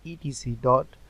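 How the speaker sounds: ordinary delivery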